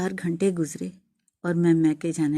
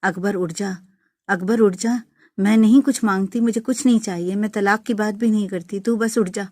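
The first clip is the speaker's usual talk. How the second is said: wailing plea; 3 semitones higher, 5 dB louder than usual. Retold or imitated. Widow wailing over her husband's body, begging him to wake. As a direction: beg the dead man to wake up. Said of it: "میں چیخنے چلانے لگی".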